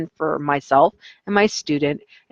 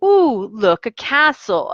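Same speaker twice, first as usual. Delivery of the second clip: put-on bright, excited kid-show voice rising higher; light Dora-style wonder at a discovery; Dora the Explorer; 4 semitones higher than usual. Teacher imitating Dora the Explorer to hold a short attention span. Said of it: "like Dora the Explorer".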